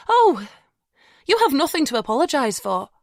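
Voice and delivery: high, fragile reassurance; mum's voice. A narrator's reading. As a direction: reassure gently, voice shaky. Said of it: "her voice growing stronger".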